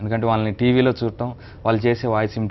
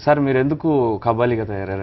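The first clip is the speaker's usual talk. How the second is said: dubbing the clip. Acted. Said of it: "దానికి మీరు dub చెప్పాలి".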